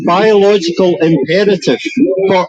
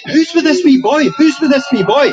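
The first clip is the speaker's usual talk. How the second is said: much higher, urgent repeated call; lost it, shouting; 8 semitones higher than usual. Retold or imitated. Man shouting on the platform about a lone boy, urgent call. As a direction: demand an answer from the crowd, raised. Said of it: "I just lost it".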